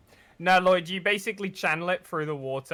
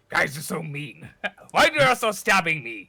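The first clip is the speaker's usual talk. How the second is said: whiny Captain Husk; 4 dB louder than usual. Acted. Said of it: "she just goes".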